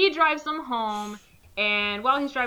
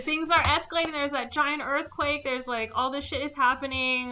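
higher, louder, fast helpless excuse; mock exasperated geologist; 7 semitones higher, 3 dB louder than usual. Friend mocking the geologist, high loud flustered excuse. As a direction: parody a flustered scientist.

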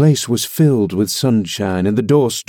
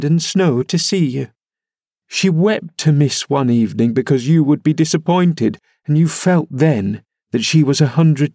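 a higher, pleading reproach; 4 semitones higher than usual. Acted. Nelly pleads with Linton, reproachfully. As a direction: shame him with her kindness. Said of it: "pleading reproach".

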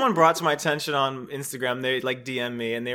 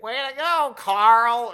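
mock cheer; 8 semitones higher, 6 dB louder, much slower than usual. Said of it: "she's like".

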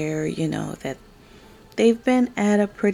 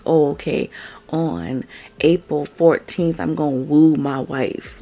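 mock scheduling husband; 2 semitones lower, 4 dB louder than usual. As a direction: imitate a husband plodding through his plans. Mimics husband scheduling his wooing.

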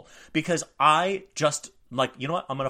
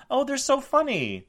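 mock naive glee; 3 dB louder than usual. Mock naive childhood reaction.

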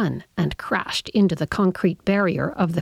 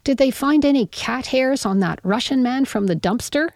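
yelling; 6 semitones higher than usual. Acted. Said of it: "I yelled".

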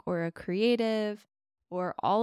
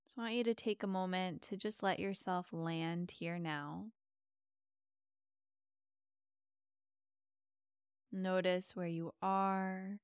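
guided meditation. Acted. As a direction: ease them into calm with long pauses.

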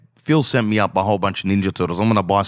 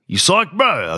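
much higher, eager imitation of the brother-in-law; 9 semitones higher, slower than usual. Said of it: "He goes".

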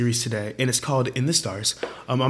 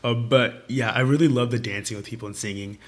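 hoarse voice; 3 semitones lower, 3 dB quieter than usual. Real, not acted. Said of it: "I'm, like, kind of losing my voice right now".

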